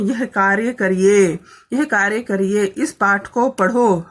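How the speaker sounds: slow, deliberate classroom instruction; teacher's instruction. Shown as a demonstration. Teacher giving her pupils a task, slow and deliberate. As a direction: spell out each task slowly for the class. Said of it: "हम लोग बोलते रहते हैं".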